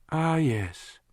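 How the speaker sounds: high, dripping-sarcasm woman's voice; heavy sarcasm. A narrator's reading. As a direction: say it like it's absurd. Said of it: "Lana said with heavy sarcasm".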